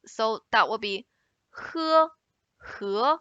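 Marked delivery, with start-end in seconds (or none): 1.7-2.1 "he" held high and level; high, steady "he"; first tone. Shown as a demonstration. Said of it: "we have four tones in Chinese". 2.8-3.2 "he" rising in pitch; second tone. Shown as a demonstration. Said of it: "we have four tones in Chinese".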